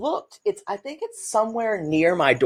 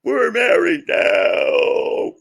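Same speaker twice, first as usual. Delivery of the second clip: very slow, higher shouted line; Stacey yelling at her sister; Stacey's outburst; 5 semitones higher, much slower than usual. Acted. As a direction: drag it out in a shout. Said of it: "playing the role of Stacey".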